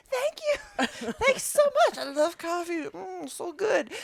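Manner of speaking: high, mock people-pleasing gush; over-grateful grovelling. Passenger grovelling to the bitchy stewardess, exaggerated gratitude.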